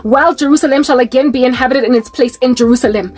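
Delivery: measured Bible reading voice; solemn recital of Zechariah; scripture reading. Acted. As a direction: read it like a prophecy from the pulpit. Reads scripture prophecy aloud.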